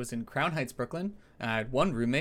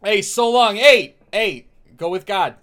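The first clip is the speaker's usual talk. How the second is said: Doctor Joey voice; 7 semitones higher, 9 dB louder than usual. Acted. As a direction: announce yourself like a brash regular. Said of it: "All right, Doctor Joey".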